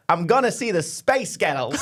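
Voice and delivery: slow put-on American accent; American-accent take. Shown as a demonstration. Co-host showing the American version beside the Scottish, American accent. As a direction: stretch it out in mock American. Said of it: "Or you go".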